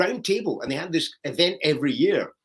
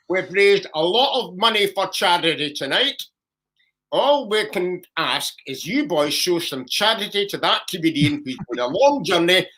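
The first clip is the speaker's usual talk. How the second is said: compere appeal. Retold or imitated. Compere begging the crowd to take the comedian back.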